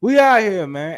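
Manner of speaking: high, loud hyped-up yell; hype shout. Retold or imitated. Host imitating his own hype, loud high shout. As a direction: belt it out like a hype man. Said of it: "I was just like".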